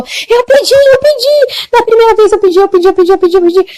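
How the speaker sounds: high, urgent insisting voice; insistent young woman. Retold or imitated. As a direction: insist anxiously that she did ask. (moça insistente, voz aguda e aflita)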